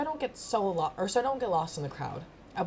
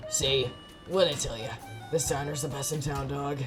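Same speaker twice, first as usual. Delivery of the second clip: sly alley cat; 3 semitones lower than usual. Acted. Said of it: "Gomer meows happily as they dig".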